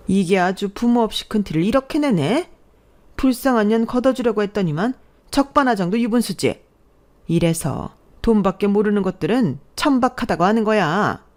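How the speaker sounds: lightly acted contemptuous scolding; a touch of haughty indignation; worked-up mother-in-law. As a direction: look down on her with mild outrage. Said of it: "방방 뛰고 난리도 아니었어요".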